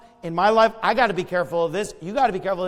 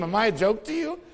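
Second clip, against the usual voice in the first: meme quote. Retold or imitated. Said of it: "it's like the meme".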